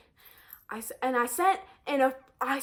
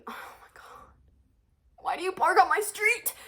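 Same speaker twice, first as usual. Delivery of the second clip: higher, louder, fed-up question; exasperated rant; 6 semitones higher, 4 dB louder than usual. Real, not acted. To the parked moms, a loud exasperated why. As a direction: demand it, annoyed and loud.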